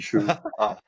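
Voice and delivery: "Chua" slowed into two syllables. Shown as a demonstration. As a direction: say "Chua" slowly, as a model to copy. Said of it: "I think slower is better".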